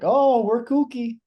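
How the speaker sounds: high silly goofy voice; mock kooky voice. Mocking tourists drinking toe.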